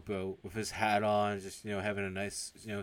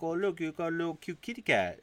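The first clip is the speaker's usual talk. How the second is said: higher, gushing realtor voice; cooing over a pet; 8 semitones higher, 3 dB louder than usual. Retold or imitated. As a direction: coo over a cute kitty. Realtor gushes over supposed cat.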